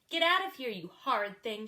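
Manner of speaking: furious cry. Acted. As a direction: chase him out in a rage. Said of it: "she cried".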